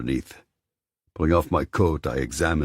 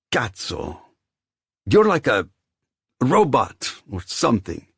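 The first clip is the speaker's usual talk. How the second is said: grumbling; 9 semitones higher, 6 dB louder than usual. Acted. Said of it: "he grumbled".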